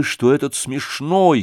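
ordinary delivery, nothing marked

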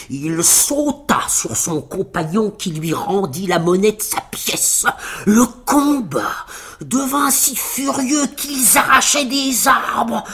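slow, drawn-out, mounting storytelling; dramatic fight narration. A narrator's reading. Narrator tells children of two giants fighting, with mounting drama. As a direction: stretch the words as the battle rages.

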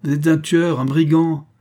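high, loud insults hurled; shouting. A narrator's reading. Father calling the suitor a killer, shouting. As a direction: keep yelling the accusations. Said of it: "criait le père".

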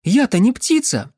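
protesting cry. Acted. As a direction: call out in protest. She protests while dragged along. (протестующий выкрик)

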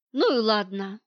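flat letting-go, a touch weary; detached, tired voice. Acted. Wife gives up the argument, detached and tired. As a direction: let it drop as if worn out. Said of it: "отрешённым и немного усталым голосом".

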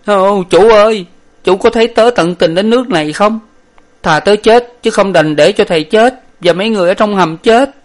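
high, loud comic blubbering servant; sobbing servant voice pitched high and loud; crying servant. A narrator's reading. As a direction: wail as water rises to his neck. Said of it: "Lục Tặc khóc mà rằng".

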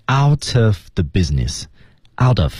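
"out of" run together as one word; linked pronunciation. Shown as a demonstration. Teacher showing students liaison, "out of" joined up. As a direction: link the "t" of "out" into "of". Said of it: "注意连读部分".

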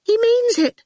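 scared whisper-thin squeak; frightened little squeak; faint squeak. Acted. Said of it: "in a faint squeak".

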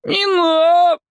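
put-on slow, high boy's mumble; sulky boy. A narrator's reading. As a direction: shrug it off like a scrawny kid. Captive boy protests.

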